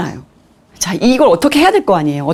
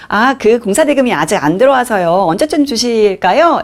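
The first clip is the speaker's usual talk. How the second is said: polite, higher-pitched sweet request; 예쁘게 말하기; 4 semitones higher than usual. Retold or imitated. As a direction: ask nicely, imitating a careful phone voice. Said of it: "난 진짜 예쁘게 얘기했는데". (예쁘고 공손하게 조심스레 묻는 말투)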